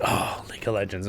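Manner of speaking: low, subdued groan of recognition; unimpressed reaction. Retold or imitated. People reacting to hearing League of Legends, unimpressed. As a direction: sigh it out quietly, underwhelmed. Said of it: "People are probably like".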